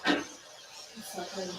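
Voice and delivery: breathy hushed whisper. Real, not acted. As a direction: whisper it so the spirits can't hear. Ghost hunt, hushed reaction.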